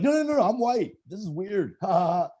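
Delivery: high, panicky put-on voice of a self-hating snob; a hammed-up disgusted brat; mocking snob. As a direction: play the snob recoiling, then sneering. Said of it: "you're like".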